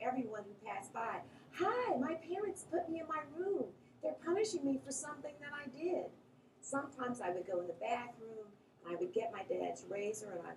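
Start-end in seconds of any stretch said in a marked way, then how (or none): 1.5-6.1 mock yell out the window. Child telling everyone who passed by, mock yell. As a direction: imitate a child hollering to passers-by. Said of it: "I would yell out the window".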